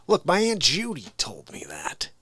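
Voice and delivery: whispery folksy politician impression; muddled president citing family wisdom; Joe Biden. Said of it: "a good Joe Biden impression".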